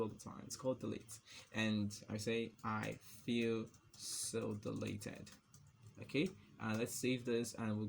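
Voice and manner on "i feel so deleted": slow, drawn-out words; typing-pace dictation. Real, not acted. Typing deleted example text, slow dictation. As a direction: say each word as you type.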